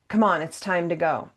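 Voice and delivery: brisk, hurrying them along; no choice offered, just move; impatient caregiver rounding them up; pushy command. Shown as a demonstration. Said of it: "That's disempowering".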